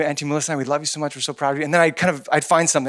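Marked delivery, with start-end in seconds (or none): 0.0-1.6 tender encouragement. Retold or imitated. Uncle encouraging young nephew.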